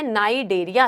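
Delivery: "नाइडेरिया" begun on a plain N, "nai-de-ri-ya"; silent C. Shown as a demonstration. Teacher modelling pronunciation for students, "नाइडेरिया" with silent C. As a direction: pronounce "नाइडेरिया" with the C left silent. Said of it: "इसका pronunciation होता है".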